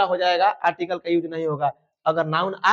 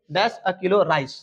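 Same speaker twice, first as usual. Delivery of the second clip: dictation pace; much slower than usual. Shown as a demonstration. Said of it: "teacher dictating corrected sentence".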